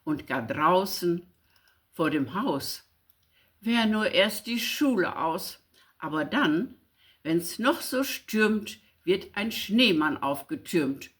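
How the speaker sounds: lively, rhythmic verse reading with delight; poem recitation. Acted. Reading Friedrich Güll's snow poem aloud, lively recitation. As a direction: read it with wonder at the snow.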